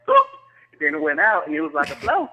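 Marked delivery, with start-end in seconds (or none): 0.1-0.2 imitated pop. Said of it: "and then it was like".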